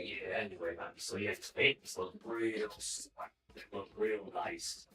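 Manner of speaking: strange mom voice. Retold or imitated. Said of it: "you usually don't sound like this".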